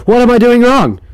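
high, puzzled voice for the confused man; confused guy. Retold or imitated. Vlogger voicing a confused man stealing coke, high and baffled. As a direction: whine it out, baffled at the machine. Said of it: "I like how he's confused".

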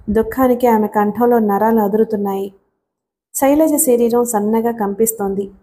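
ordinary delivery

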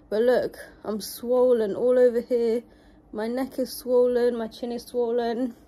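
unsteady, shaky voice. Real, not acted. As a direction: voice shaking a little as she talks. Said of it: "my voice is, like, shaky".

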